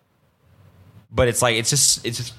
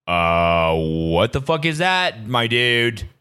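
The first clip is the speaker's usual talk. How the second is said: slow, drawn-out dude-bro disbelief; lightly voiced bewildered bro; hammed-up freaked-out dude; mock bro voice; 3 semitones lower, much slower than usual. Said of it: "been like".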